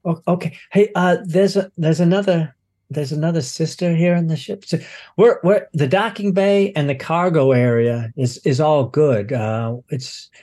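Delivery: lightly voiced, hesitant crewman reporting; flustered docking supervisor. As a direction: stumble through a report, relieved at the end.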